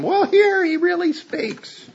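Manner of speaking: a high, slow, triumphant reply; emphatic. Real, not acted. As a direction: answer them triumphantly, slowly. Emphatic answer to skeptics.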